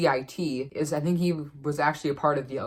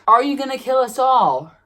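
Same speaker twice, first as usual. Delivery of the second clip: higher, louder, scared voice asking the spirit; frightened question; 8 semitones higher, 8 dB louder than usual. Retold or imitated. Kids asking the Ouija spirit, mock frightened and loud. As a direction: ask it as if terrified. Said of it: "they were saying things like".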